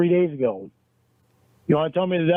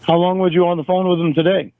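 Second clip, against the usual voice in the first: louder, hammering question; heated interrogation; 5 dB louder than usual. Acted. Boyfriend interrogating Jamie about call hours, angry and raised. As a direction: grill her, voice raised. In-character quarrel over texts.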